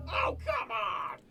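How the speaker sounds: slow, exasperated shout; frustrated shout. Acted. Frustrated at a failed attempt.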